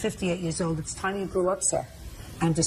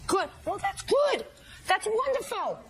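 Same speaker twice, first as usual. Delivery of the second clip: sarcastic; 12 semitones higher, 3 dB quieter, slower than usual. Real, not acted. Judge mocks defendant sarcastically.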